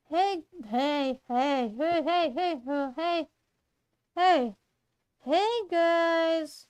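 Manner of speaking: put-on testing a new girl voice, repeating hey; searching for Vicky's voice by trial; trying out a voice. Shown as a demonstration. Trying out Vicky's voice while the listeners wait. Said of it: "I need to think about the Vic voice".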